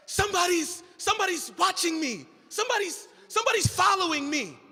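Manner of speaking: jittery scaredy cat whining about being watched; frightened monkey telling the orangutan someone is following him; anxious monkey. Acted. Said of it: "recognized him as an anxious scaredy cat".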